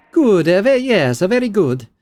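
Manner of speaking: high, excited scholar; excited researcher. Acted. Scholar announces her findings to a colleague, high and excited. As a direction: report a discovery. Belasag voice.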